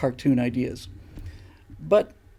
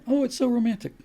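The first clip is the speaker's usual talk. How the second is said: mock swooning woman; 10 semitones higher than usual. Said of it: "mocking women on Titanic".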